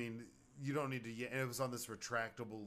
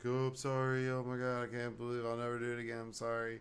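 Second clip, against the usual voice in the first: mock apology; faster than usual. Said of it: "And he was like".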